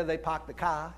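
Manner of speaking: mock New England "pahk the cah"; lightly put-on New England speech; New England accent. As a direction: imitate a New England accent, dropped r's. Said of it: "they don't have cars up there".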